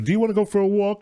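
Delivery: put-on high, fast girly voice; movie character voice. Quoting a Boogie Nights bedroom scene, high girly voice. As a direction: lightly play a coked-up girl from the film. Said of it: "and she goes".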